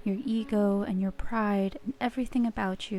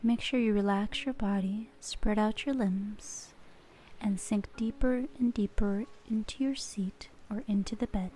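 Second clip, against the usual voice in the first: guided relaxation. Acted. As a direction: ease the listener gently into calm. Leads a relaxation exercise.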